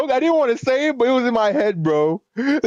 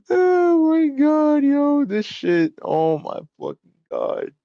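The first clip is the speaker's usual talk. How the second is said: laughing; 5 semitones higher, much slower than usual. Real, not acted. Cracking up after the joke.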